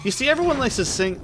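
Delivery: high, fast Queensland accent; a quick Queensland accent. Shown as a demonstration. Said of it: "I was going for a Queensland accent".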